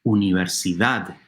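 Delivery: "Universidad" ending on a stressed DAD; stress on last syllable. Shown as a demonstration. Teacher repeats it for listeners to hear, "Universidad" stressed on final DAD. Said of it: "The last syllable is stressed".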